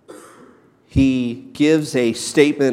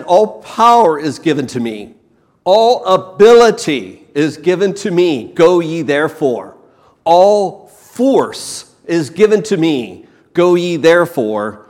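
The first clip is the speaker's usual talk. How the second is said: rising proclamation; 4 semitones higher, 5 dB louder than usual. Acted. Preacher builds repeated declarations.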